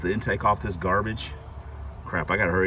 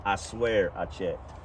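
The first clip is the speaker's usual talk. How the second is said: laughing plea; much slower than usual. Real, not acted. Pleading innocence to viewers.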